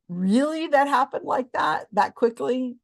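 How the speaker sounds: high, disbelieving questions; incredulous. Real, not acted. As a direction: scoff at how unlikely it sounds. Mocking a psychic's success claim.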